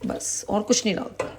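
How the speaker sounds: soft, breathy whisper as if sharing a secret; whispered aside. Real, not acted. Telling viewers she adds nothing else, in a whisper. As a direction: drop to a whisper, confiding. Confiding the recipe's simplicity.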